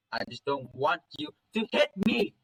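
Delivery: pleading yell climbing high; acted desperate high-pitched yell; yell into shriek. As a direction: cry out at a parent, rising toward a shriek. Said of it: "I yell so loud my voice shits to a shrieking scream".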